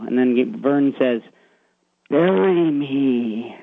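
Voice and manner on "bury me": scary voice. Retold or imitated. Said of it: "In a really scary voice".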